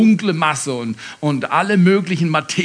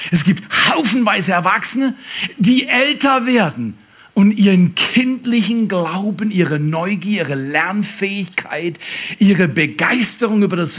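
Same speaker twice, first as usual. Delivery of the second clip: 1 preaching shout; 3 semitones higher than usual. Real, not acted. Preacher rousing the congregation.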